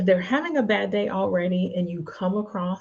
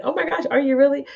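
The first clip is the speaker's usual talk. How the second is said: mock disbelief; 7 semitones higher, 5 dB louder, much faster than usual. Voices the audience's shocked reaction.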